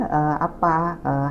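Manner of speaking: usual speaking voice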